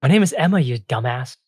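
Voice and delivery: high, loud fairy snapping at a friend; exasperated ice fairy. Acted. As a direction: insult a friend in a high, fed-up voice.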